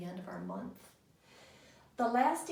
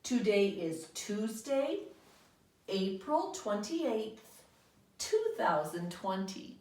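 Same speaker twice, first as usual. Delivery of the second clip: choral model sentence; slower than usual. Shown as a demonstration. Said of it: "Say that with me".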